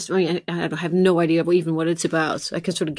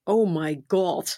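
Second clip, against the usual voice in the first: Dutch accent; 5 dB quieter, slower than usual. Shown as a demonstration. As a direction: drawl "Oh my God." in a lightly Dutch way. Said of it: "like a really bit terrible Dutch accent".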